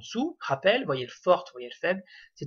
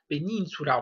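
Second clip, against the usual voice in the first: peninsula with the I of "nin" stressed and held; tonic I. Shown as a demonstration. Teacher showing the tonic vowel third from the right, stressed I. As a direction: stress the second syllable of peninsula. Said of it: "c'est l'accent tonique".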